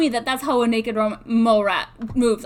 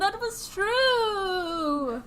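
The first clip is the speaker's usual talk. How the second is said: very slow, high ghostly wail; 6 semitones higher, much slower than usual. Pretend. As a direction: drag it out like a ghost. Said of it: "ghost intro".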